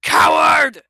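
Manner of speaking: furious dragon bellow. A narrator's reading. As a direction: roar it at him. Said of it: "the older dragon bellowed".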